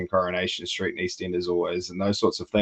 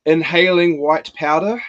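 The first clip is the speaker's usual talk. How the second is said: higher, louder and slow on the reveal; shocked emphasis; 7 semitones higher, 7 dB louder, slower than usual. Real, not acted. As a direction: spell out the scandal slowly.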